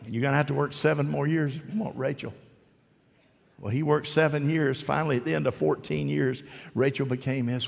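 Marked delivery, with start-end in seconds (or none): 0.1-2.3 laughing. Retold or imitated. Repeats Laban line laughing.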